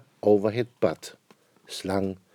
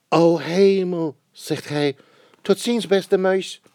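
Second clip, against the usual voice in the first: high, slow alarmed owl; startled owl; 8 semitones higher, 4 dB louder than usual. Acted. Owl sees the Gruffalo, high and alarmed. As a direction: gasp then flee.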